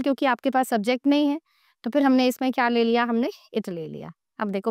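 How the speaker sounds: ordinary talk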